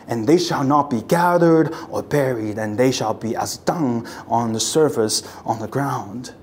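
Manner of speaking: solemn oracle read; prophetic proclamation. Acted. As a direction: proclaim it like the prophet, then let it sink.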